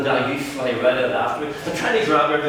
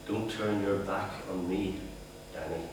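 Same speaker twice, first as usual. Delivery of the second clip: shaking rage; 5 semitones lower, 13 dB quieter than usual. Retold or imitated. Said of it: "the rage making your voice shake".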